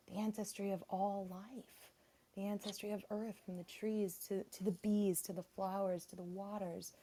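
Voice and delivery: faint and distant, away from the mic; speaking too far from the phone; phone held away. Real, not acted. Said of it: "could you go speak closer to the phone".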